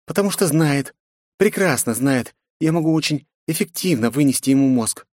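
defiant princess. A narrator's reading. Princess mocks her father, defiant. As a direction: tease and defy her father.

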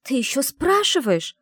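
hissed. A narrator's reading. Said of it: "прошипела я".

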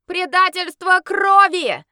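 high, loud, slow shout; crowd shout. Acted. Outraged guests shouting at the werewolf. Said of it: "закричало несколько голосов".

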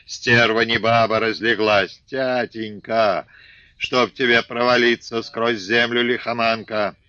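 put-on old man raging over his daughter-in-law; angry cursing. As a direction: spit curses at her. Father cursing while kicking.

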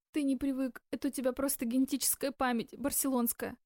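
usual speaking voice

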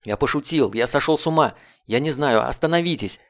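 high, loud terrified pleading; panicked cry. A narrator's reading. Blum begs Ting not to shoot, shrieking in terror. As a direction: scream for your life to make him stop. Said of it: "он шатался и вскрикивал".

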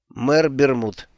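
slurred, heavy-tongued mumble; drunk slurring. Acted. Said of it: "еле ворочая языком, пробормотал Алекс".

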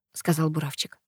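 ordinary delivery

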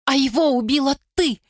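high shout in her face. A narrator's reading. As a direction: fling it at her. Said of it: "выкрикнула ей в лицо".

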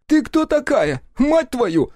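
put-on high, loud outburst at the girl; exploding question. A narrator's reading. Step snaps at the girl in the car, loud outburst. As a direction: blurt it out, losing patience. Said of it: "Не выдержал и вывалил главный вопрос".

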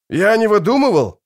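high, loud indignant protest; protest, stung at being doubted; indignant soldier. A narrator's reading. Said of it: "возмутился солдат". (возмущённо, громко и высоко)

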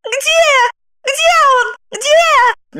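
very high, agitated repeated questions; frantic muttering. A narrator's reading. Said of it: "Она, бормоча". (лихорадочно, высоким голосом)

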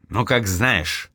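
slow, bitter and hardened; hardened reply. Acted. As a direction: drag it out coldly, closing the door on her. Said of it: "ожесточился он". (медленно и ожесточённо)

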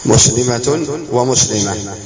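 slow مسلمة ومسلمة, first "-tun", second "-ah"; t ending, then h. Shown as a demonstration. Teacher contrasting both readings, مسلمة ومسلمة as t then h. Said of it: "التاء المربوطة يمكن أن تنطق".

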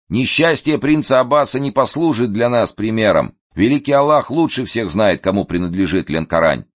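proud reply. Acted. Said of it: "отвечал в гордости".

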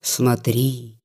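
ironic remark. Acted. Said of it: "иронически заметил купец".

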